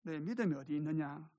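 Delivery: mild, tender question; gentle chiding. Shown as a demonstration. The Lord tapping a disciple's shoulder, gently asking. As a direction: ask it kindly, without any scolding. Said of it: "어깨를 살짝 치시면서".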